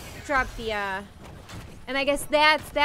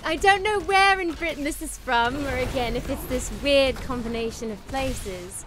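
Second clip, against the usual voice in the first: British accent. Shown as a demonstration. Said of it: "British is a lot of fun".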